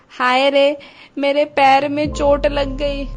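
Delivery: mild tearful wail, slowed; crying in pain. Acted. Mother-in-law arriving hurt, mild tearful wail. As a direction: whimper about the hurt foot, a touch of crying. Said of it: "रोते हुए आती है".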